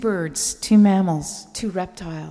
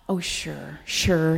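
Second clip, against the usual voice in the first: sarcastic; 2 semitones lower, slower than usual. Retold or imitated. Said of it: "he said sarcastically".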